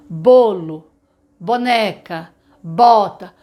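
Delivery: slow, clear word list; slow example words. Shown as a demonstration. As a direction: say each word for the children. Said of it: "quando ela fala". (palavras lentas e claras)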